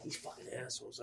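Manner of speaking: very low, quiet cursing; defeated grumble. Retold or imitated. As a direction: grumble it to yourself. Retelling defeated grumble alone.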